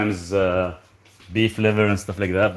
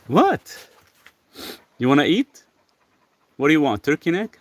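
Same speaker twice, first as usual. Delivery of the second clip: high pet talk; 7 semitones higher than usual. Real, not acted. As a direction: ask the dog sweetly. High baby talk to dog.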